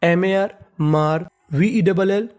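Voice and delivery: slow, letter by letter spelling; slow dictation. Shown as a demonstration. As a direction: spell मार V E double L slowly for the class. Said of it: "तो meaning मिला के पढ़ते हैं".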